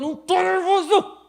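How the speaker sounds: loud, high furious denial; angry shout. Acted. The upset person snaps back at being called nervous, shouting. Angry retort in acted quarrel.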